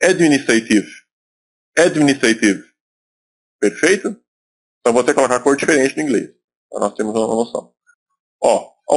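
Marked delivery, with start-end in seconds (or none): 0.0-2.6 Administrative, said the English way, ending in a clipped "tive"; English pronunciation. Shown as a demonstration. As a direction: say Administrative as in English, with no Portuguese vowel at the end. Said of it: "A pronúncia como é que seria?".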